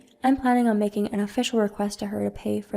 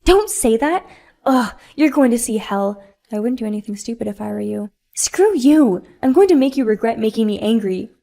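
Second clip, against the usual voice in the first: furious spoiled mom; 6 dB louder than usual. Acted. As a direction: snap back and swear revenge. Spoiled mom swears revenge.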